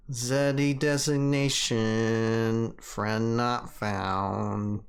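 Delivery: very slow machine voice; robot voice. Pretend. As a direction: stretch it out like a robot. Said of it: "You gotta do the robot voice".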